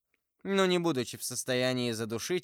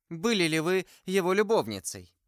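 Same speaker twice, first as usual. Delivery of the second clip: higher and louder, jealous insistence; jealousy gives her strength; with sudden energy; 6 semitones higher, 4 dB louder than usual. A narrator's reading. The jealous novice insisting to Milady, energetic and loud. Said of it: "продолжала она с энергией".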